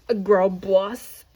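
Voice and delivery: slow, loud, proud declaration; girl boss. Pretend. To her viewers, boasting about pushing through sickness: slow proud declaration. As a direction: announce it like a title, drawn out. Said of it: "'cause I am, what?".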